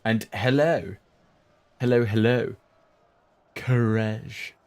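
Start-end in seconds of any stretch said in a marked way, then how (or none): 3.5-4.5 said through a yawn. Real, not acted. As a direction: yawn while saying it. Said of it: "sorry for the yawn".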